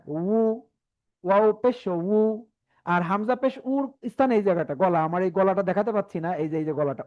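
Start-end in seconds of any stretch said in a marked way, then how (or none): 0.1-2.2 উ as wu through rounded lips. Shown as a demonstration. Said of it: "উচ্চারণের স্থান এই জায়গাটা".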